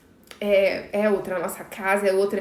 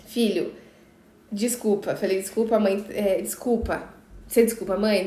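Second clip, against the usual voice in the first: gentle apology; 2 semitones lower, 4 dB quieter than usual. Retold or imitated. Mother apologizing to son at bedtime.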